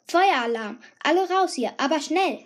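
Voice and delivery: mock caretaker yelling at the band; caretaker's order. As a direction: shout everyone out. Caretaker announcing fire drill.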